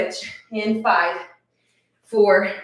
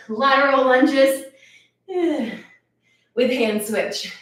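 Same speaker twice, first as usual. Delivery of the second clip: announcing; 3 semitones higher, 4 dB louder, slower than usual. Real, not acted. Coach announcing next exercise.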